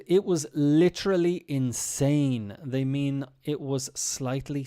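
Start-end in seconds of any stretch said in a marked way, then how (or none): 0.1-2.6 drawn-out, slowed "literally insane"; mock American hype. Teacher mimicking an American podcaster, hyped. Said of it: "When an American says".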